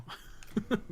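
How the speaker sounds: breathy high-pitched giggle; a quick airy laugh. Real, not acted. Laughs at grabbing second item.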